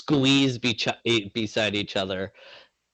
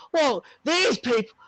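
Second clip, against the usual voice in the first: annoyed passer-by; 12 semitones higher than usual. Acted.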